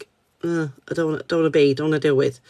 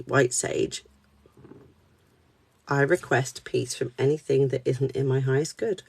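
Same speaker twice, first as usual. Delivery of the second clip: spoken blessing; 2 semitones lower, 4 dB quieter than usual. Real, not acted. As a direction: recite it quietly as a request to the spirits. Speaks a protection blessing.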